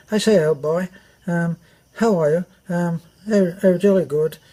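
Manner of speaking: lightly voiced Hollywood Englishman; mock a movie toff; posh British accent. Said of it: "British people were always saying".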